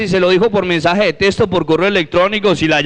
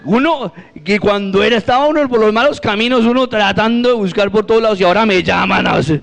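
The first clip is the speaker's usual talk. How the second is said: higher-pitched mock protest; indignant complaint; 5 semitones higher than usual. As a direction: complain upward at the unfairness of it. Acted indignant complaint to God.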